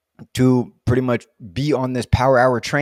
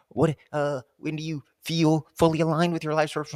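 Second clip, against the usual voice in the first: baffled rereading; 4 semitones higher, 3 dB quieter than usual. Retold or imitated. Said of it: "I'm over here like".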